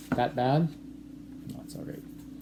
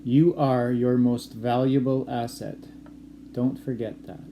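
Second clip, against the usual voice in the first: steady teacher dictating a quote; slow dictation. Shown as a demonstration. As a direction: read it out clearly so they can write it down.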